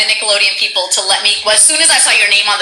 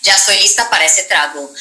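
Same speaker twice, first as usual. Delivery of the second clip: quick Spanish game-character line; lightly voiced character, rattled off in Spanish; Sombra; 2 semitones lower, faster than usual. Host gives a subscriber a Sombra line, quick character delivery. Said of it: "it's a Sombra voice line".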